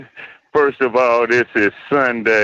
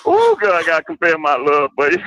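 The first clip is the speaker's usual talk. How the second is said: put-on girly voice; 6 semitones higher, faster than usual. Repeats confession in girly voice.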